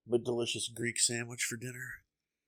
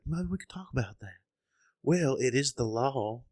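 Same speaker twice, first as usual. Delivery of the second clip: higher-pitched mock southern voice; southern accent; 4 semitones higher than usual. Host repeats the liberal guy's line, mock southern accent. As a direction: mimic a southern debater, stretching the words. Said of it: "a little bit of a southern accent".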